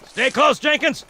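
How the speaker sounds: barked commands. Acted. Sergeant calls to Jenkins and Mendoza, shouting. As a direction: push the squad forward. Sergeant directing marines in battle.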